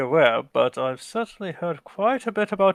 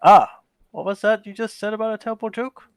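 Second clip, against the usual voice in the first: higher, louder and fast, mock offended; a snappy, indignant retake; mock indignation; 6 semitones higher, 6 dB louder, faster than usual. Retake, acted mock outrage.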